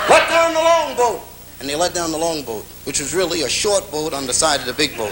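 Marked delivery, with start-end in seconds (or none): 0.1-1.2 captain's order. Acted. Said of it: "He said".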